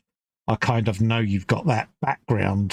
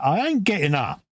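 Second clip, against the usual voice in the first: stubborn refusal; 5 semitones higher than usual. Retold or imitated. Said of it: "you're like".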